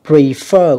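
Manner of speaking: "Prefer" slowly, FER stressed; second-syllable stress. Shown as a demonstration. Teacher showing students word stress, pre-FER with the second syllable stressed. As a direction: hit the last syllable of "Prefer". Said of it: "cũng là âm hai".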